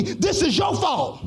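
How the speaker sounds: slow, pointed blame; accusing tone. Retold or imitated. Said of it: "talk to me in that tone of voice".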